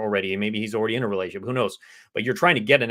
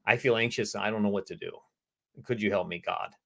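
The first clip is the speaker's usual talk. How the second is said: soft prayerful plea; 5 dB quieter than usual. Retold or imitated. Talking to God, a soft lowered plea. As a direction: quietly ask God for help. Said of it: "sharing it to God".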